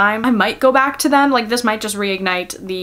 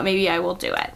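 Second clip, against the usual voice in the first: quiet musing; 3 semitones lower, 6 dB quieter than usual. Real, not acted. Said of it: "And you know what?".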